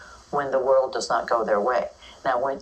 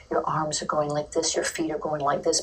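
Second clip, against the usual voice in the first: from the heart. Shown as a demonstration. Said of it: "from your heart".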